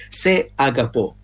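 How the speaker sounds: se agapò slow, stress on the last syllable pò; careful, unsure Greek se agapò; Greek phrase. Shown as a demonstration. Speaker tries saying love in Greek, slow and careful. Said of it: "se la pronuncia è corretta".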